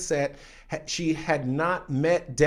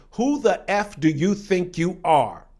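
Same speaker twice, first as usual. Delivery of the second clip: acted-out indignant challenge, slightly raised; angry confrontation; 4 semitones higher, 4 dB louder than usual. Actor confronting the actress on set, angry but held back. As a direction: start the mock tirade, pointed but held back. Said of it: "sticks his finger in my face and goes".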